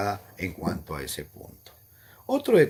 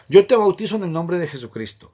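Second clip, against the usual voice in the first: raised, louder solemn recitation; baptismal formula voice; 5 semitones higher, 7 dB louder than usual. Retold or imitated. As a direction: intone it like the officiant at the font. (fórmula bautismal, más alta y fuerte)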